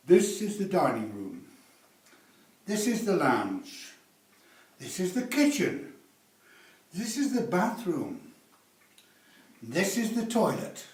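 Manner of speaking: flat list read out room by room; lightly mocked realtor; mocking dull realtor. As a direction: play a boring tour guide. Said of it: "where the realtor says".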